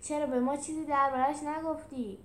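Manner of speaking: grumbling reproach at fools; mild growl. Acted. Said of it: "میلوس قرید".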